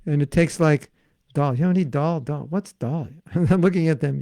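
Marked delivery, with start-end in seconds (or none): 1.3-3.1 "dal" said the American way, plain d. Retold or imitated. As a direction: ask for "dal" in an everyday American way. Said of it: "I do it my American way".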